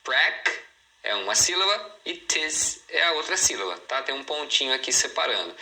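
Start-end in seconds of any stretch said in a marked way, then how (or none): 0.0-3.8 "prac" and "tis" each set apart; "prac" held apart from "tis" for learners; syllables shown. Shown as a demonstration. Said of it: "mostrando as sílabas".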